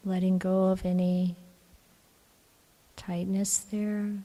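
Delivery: calm, even meditation voice with long pauses; guided meditation. Acted. Teacher guiding the group to relax the body, calm meditation voice. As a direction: gently guide them into relaxing, leaving long silences.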